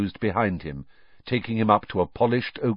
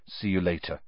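muttered aside; 2 semitones lower, 6 dB quieter than usual. Acted. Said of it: "Harry muttered to Ron".

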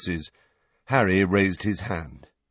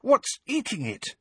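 terrified. A narrator's reading. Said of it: "in a terrified voice".

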